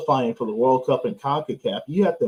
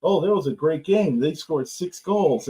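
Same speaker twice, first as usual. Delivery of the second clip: mocking fan; 3 semitones higher than usual. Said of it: "people joke around about it".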